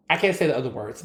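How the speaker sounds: ordinary talk, nothing marked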